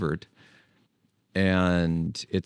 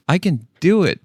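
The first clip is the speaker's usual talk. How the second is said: high and louder, a burst of falsetto; high-pitched voice; 10 semitones higher, 7 dB louder than usual. Shown as a demonstration. Vlogger proving he can hit the high voice, loud falsetto. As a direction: pop up high for a moment. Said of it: "the same with the high-pitched voice".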